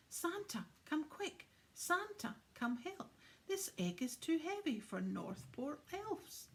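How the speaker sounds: high urgent calls for Santa; little elves yelling for Santa; calling out. Acted. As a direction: shout up the hall for help.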